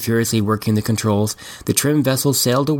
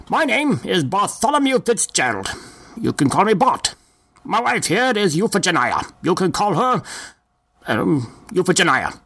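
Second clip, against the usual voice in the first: put-on slow, higher old gentleman; chatty elderly passenger, drawn out; old man voice; 7 semitones higher than usual. Old passenger Bart speaks.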